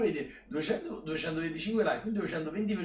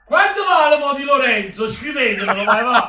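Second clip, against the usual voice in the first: much higher, much louder shouting of joy; goal celebration; 7 semitones higher, 15 dB louder than usual. Real, not acted. Streamer screaming with joy at Di Lorenzo's goal to viewers.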